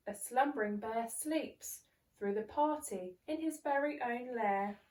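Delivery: put-on lively read-aloud for children; bouncy story voice for little ones; storybook narration. A narrator's reading. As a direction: read it like a bedtime picture book. Narrating a picture book.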